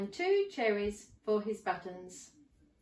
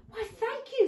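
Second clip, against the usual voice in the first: gingerbread man voice; 13 semitones higher, 3 dB louder than usual. Acted. Gingerbread man thanks fox.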